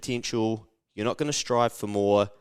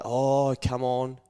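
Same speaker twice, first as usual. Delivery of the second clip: higher-pitched mock lecturing elder; sing-song higher voice of a disapproving parent; nagging grown-up; 3 semitones higher than usual. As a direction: play the killjoy adult telling a kid to play it safe. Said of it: "by the time you start getting a little bit older".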